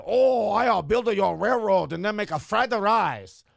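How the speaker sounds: slow, loud put-on Asian caricature; mock accent. Listing stereotypes to his cohost, slow loud mock accent. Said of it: "Or I can say".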